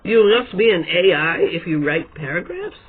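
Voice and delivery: can you believe this, said with a questioning lift; incredulous echo. Real, not acted. Echoing the forum guy's put-down in disbelief. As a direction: echo his words back in disbelief, rising at the end.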